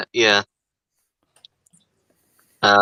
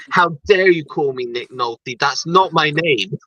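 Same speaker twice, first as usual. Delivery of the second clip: slightly raised, drawn-out mock outrage; Gary Busey, mock indignant; 3 semitones higher than usual. Imitating a star confronting someone over a mistaken name, mock indignant. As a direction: imitate an affronted actor, stretching the final protest. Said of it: "it's the way he delivers the line".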